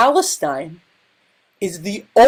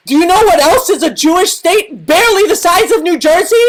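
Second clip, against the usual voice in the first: excited rhetorical question; 4 semitones higher, much faster than usual. Acted. Comic rhetorical punchline question.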